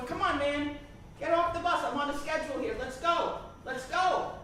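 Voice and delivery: impatient driver. Retold or imitated. Bus driver hurrying man.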